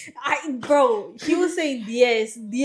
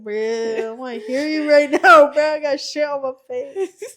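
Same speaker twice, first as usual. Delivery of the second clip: laughing protest; 2 semitones higher, 5 dB louder than usual. Retold or imitated.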